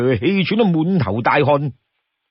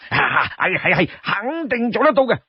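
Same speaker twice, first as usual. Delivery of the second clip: chuckling, rising eager assurance; eager agreement; 5 semitones higher than usual. Acted. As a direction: promise it in a rush of yeses. Li Kui hurriedly promises.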